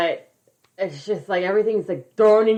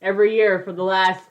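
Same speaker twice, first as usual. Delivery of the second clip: mock realization; 6 dB louder than usual. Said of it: "We're like".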